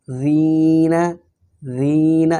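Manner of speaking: زین said softly with a light dhal, no added a; soft dh sound. Shown as a demonstration. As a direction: say زین gently, not "زینہ". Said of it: "نرمی سے، زینہ نہیں".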